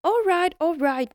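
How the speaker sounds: high, loud elf cutting in; impatient elf breaking in; elf interrupting. Acted. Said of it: "broke in the elf".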